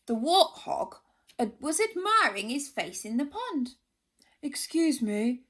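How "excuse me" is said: polite. Acted. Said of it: "said the porcupine politely".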